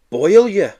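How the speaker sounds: high loud gloating taunt. Acted. Children gloating over the new boy's fate. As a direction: jeer it with glee.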